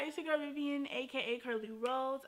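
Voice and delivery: slight lisp from a retainer; wearing a retainer. Real, not acted. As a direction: talk around a dental retainer. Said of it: "I do have my retainer in".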